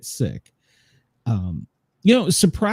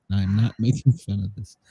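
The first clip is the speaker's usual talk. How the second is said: softer repeat breaking into a laugh; 5 semitones lower, 6 dB quieter than usual. Real, not acted. Repeating the denial to his co-host, laughing. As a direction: try to stay straight but laugh through it. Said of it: "I repeat".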